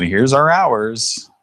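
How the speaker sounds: recorded message. Retold or imitated. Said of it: "a recording that comes on and said".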